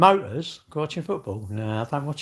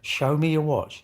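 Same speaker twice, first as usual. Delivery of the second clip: slow, drawn-out repeated mock demand; mocking imitation; 3 semitones higher, slower than usual. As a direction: nag it like the pestering stranger. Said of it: "but, like".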